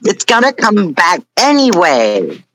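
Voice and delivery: half-hearted character yell; mild mock yell. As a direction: act out a small, contained yell. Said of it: "he, he yells".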